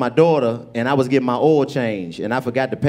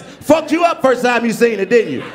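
teasing shout; 7 semitones higher than usual. Real, not acted. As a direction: hit them with a playful yell.

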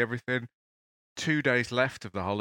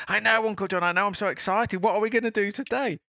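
put-on very high, bubbling child's voice; a kid who can't wait for the day; excited little boy; 12 semitones higher, 4 dB louder than usual. Logan answering his sleepy uncle, high excited child voice.

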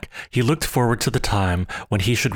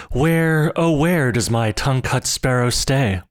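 higher, louder repeated call; old man cries louder for his sparrow; 3 semitones higher than usual. Acted. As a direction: call out again, more urgently. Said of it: "stopping at every clump of bamboo to cry".

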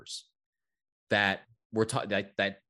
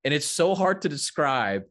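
excited; 7 semitones higher, 5 dB louder than usual. Real, not acted. Laughing excitedly about video.

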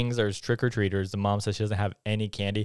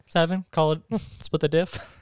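bargaining voice; 6 semitones higher than usual. Retold or imitated. Acted haggling quote.

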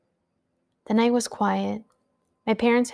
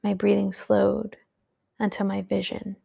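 steady storyteller reading a dark tale; story narration. A narrator's reading. Narrator reading her story to podcast listeners, steady and measured. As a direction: read it like a late-night horror audiobook.

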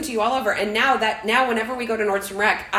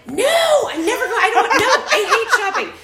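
mock exasperation; 13 semitones higher, 6 dB louder than usual. Mom's retold exasperated reply.

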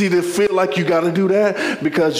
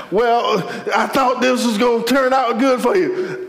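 raised, needling pitch; pressing questioner; 5 semitones higher than usual. Acted. Someone doubting it turned out good, pressing and high. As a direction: needle them in a higher voice.

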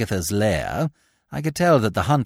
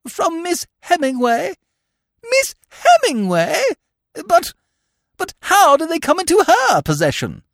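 falter, unable to take it in; dumbfounded aunt, pitched right up; stunned disbelief; 14 semitones higher, 4 dB louder than usual. Acted.

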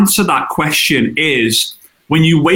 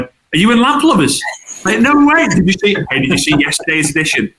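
excited fans; 5 semitones higher than usual. Retold or imitated. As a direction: buzz like a fan who spotted another. Strangers excited in street.

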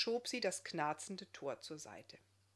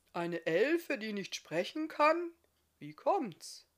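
puzzled, a bit quieter; 3 semitones higher, 5 dB louder, slower than usual. Acted. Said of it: "Stimme schon ein wenig leiser".

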